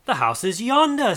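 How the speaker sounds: high, urgent exclamation; exclaiming. A narrator's reading. Scrooge exclaiming to the spirit, high and urgent. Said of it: "Scrooge exclaimed".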